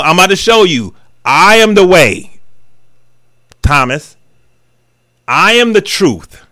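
each I am hit slow and firm; Jesus answering Thomas. Retold or imitated. Jesus telling doubting Thomas, slow and emphatic. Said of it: "Jesus said to him".

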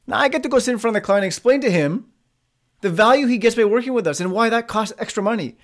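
eager, forward-leaning pitch; upbeat reframe. Shown as a demonstration. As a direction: sound glad to explain your value. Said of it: "See how things change".

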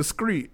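"screet" with a k after the s; stepdad's pronunciation. Retold or imitated. Stepson quoting his stepdad's street, k pronunciation. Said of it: "he say screet".

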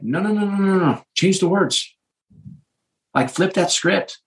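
high-pitched, rapid string of protests; retold pleading objection, pitched well up; urgent parental correction. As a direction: cut in to stop a child's negative self-talk. Parent retells urgently correcting daughter.

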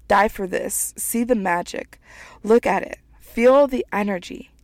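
measured, earnest reading of her own piece; a writer reading her poem aloud. Acted. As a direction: read it like a spoken-word poem.

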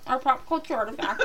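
words round a mouthful of M and Ms; marbles in mouth. Real, not acted. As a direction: mouth full of candy, laughing. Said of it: "marbles in your mouth".

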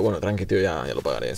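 low, soft, trailing away; offhand retold brush-off. Offender tells officer he'll pay later, low offhand murmur. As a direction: toss it off quietly and low.

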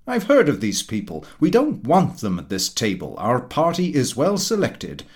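hint of a loud, opinionated dinner guest holding court; pompous Mister Huttle. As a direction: lecture the table like a self-satisfied know-all. Huttle insults the company.

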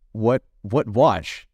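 slow, halting German husband fumbling English; lightly voiced German accent, searching for words; mock German husband. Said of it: "the husband goes".

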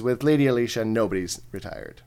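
badly faked French accent; hammed-up bad French accent. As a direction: answer as a French-accented elf commander. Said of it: "We're gonna give him a French accent".

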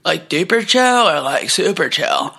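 imitating the clerk offering duper or super chill; stoned clerk. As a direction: float the words like a dazed clerk. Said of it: "the shop worker, was like".

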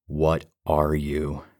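slow, demanding question; confronting the haunted player. Acted. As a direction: demand an answer from the thing. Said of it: "I demanded".

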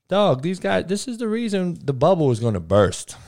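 rising to the peak of the rant; worked-up rant. Real, not acted. Heated podcast rant peak.

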